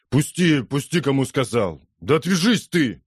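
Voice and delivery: furious shout to let go; angry shout. Acted. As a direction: shake her off, yelling. Drunk Jim wrenches free.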